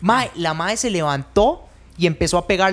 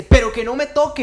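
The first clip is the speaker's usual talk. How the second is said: higher-pitched mock protest; retold shouting; 5 semitones higher than usual. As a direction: imitate a woman yelling, only mildly raised. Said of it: "Empieza a gritar". (imitando gritos de protesta, sin gritar del todo)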